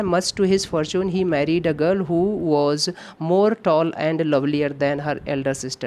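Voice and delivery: reading the sentence out word by word, very slowly; slow dictation read. Shown as a demonstration. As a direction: spell out the question sentence for students. Reads exam sentence aloud slowly. (धीमी गति से वाक्य पढ़ना)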